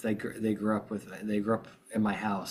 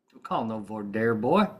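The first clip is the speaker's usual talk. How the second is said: mock Texas drawl; slower than usual. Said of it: "a guy from Texas jokingly said".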